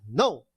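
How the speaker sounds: "no" falling firmly; "no" as a falling exclamation. Shown as a demonstration. Teacher says tone four sounds like this, exclaimed falling "no". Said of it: "it's a little bit loud".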